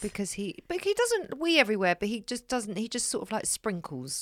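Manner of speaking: hushed. Real, not acted. Embarrassing detail about the dog.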